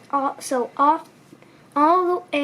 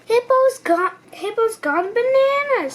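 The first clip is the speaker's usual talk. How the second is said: higher bird voice spreading news; a little bird crying the alarm; high chirpy alarm; excited bird; 8 semitones higher than usual. A narrator's reading. Cuckoo Bird voiced in story.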